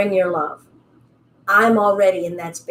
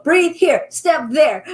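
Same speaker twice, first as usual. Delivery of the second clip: instructor commands; 6 semitones higher, slower than usual. Retold or imitated. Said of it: "if you want me to go".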